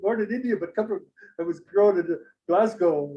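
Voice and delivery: high-pitched imitation Scottish brogue; heavy Scottish accent. Indian man explaining Glasgow upbringing, heavy Scottish accent. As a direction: answer in a put-on Scottish accent. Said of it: "he's going with the heavy accent".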